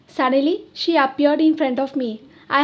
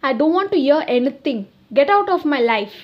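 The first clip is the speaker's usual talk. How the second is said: fast, a touch louder angry brush-off; mild anger; 3 dB louder than usual. Acted. Boyfriend refusing to listen to her, mildly angry and fast. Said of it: "he s-, said angrily".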